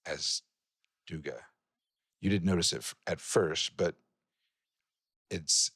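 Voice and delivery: deliberate, suspenseful storytelling; game master narration. Acted. Game master reveals the man in the ritual, suspenseful narration. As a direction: unfold the ritual phrase by phrase, with pauses.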